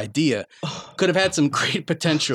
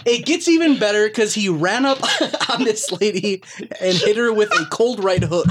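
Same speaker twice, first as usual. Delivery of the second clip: laughing while reading. Real, not acted. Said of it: "This is tough to read".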